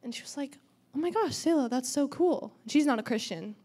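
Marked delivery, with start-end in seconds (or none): 0.9-2.5 excited friend. Retold or imitated. Friend's excited reply retold.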